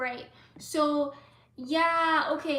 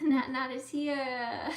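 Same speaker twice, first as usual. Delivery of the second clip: ordinary talk, nothing marked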